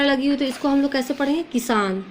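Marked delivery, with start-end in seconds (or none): 1.4-2.0 "किसान" with a brief, jerked first i; short first vowel in "किसान"; quick short vowel. Shown as a demonstration. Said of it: "झटके से पढ़ रहे हैं ना".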